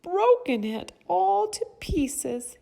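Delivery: tiny, very high little bear voice; high, loud, cute cub cry; itty-bitty Baby Bear. A narrator's reading. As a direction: squeak it out like an upset baby bear. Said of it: "in his itty-bitty voice".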